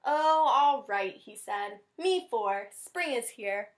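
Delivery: slow, grudging bunny; reluctant Rabbit. Acted. Teacher voicing Rabbit finally agreeing, slow. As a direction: give in with a drawn-out sigh.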